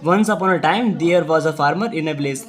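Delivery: slow, steady reading of the sentence; slow dictation. Shown as a demonstration. Teacher reading full sentence to pupils, slow. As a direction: read it slowly for the class to echo. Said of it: "आपको repeat करना है".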